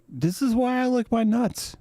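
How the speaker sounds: high-pitched dog voice; cartoonish high pet voice; talking dog. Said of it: "And a dog's just like".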